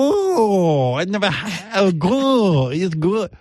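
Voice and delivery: high, wailing wonder; hammed-up high-pitched amazement; Chinny impression. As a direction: coo it high, overawed by something new. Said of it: "She doesn't appear to know anything".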